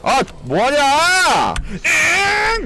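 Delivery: high frustrated yell; raging gamer. Real, not acted. Yelling at teammate, crying out.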